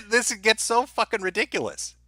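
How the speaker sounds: high laughing disbelief. Real, not acted. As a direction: laugh it out, incredulous. Laughing at absurd video.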